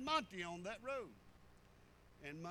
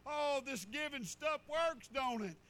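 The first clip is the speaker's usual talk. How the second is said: louder, slow, delighted exclaiming; excited testimony; 4 semitones higher, 6 dB louder, slower than usual. Retold or imitated. Man testifying to the church, excited and loud. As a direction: proclaim it like good news you can't hold in.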